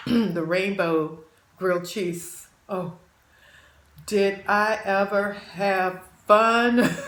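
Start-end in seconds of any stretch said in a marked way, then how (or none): 4.1-7.0 laughing. Real, not acted. Recalls a fun video.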